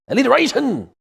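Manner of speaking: loud, high proud exclamation; triumphant reveal of the word; excited exclaim. Real, not acted. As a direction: announce it with a flourish. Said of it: "That is called alliteration".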